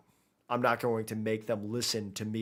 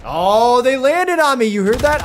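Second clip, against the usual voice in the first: high, very loud outburst; real high-pitched shout of disbelief; startled yell; 11 semitones higher, 14 dB louder than usual. Real, not acted. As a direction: yell out in real surprise as they land on you. Startled as enemies land on him.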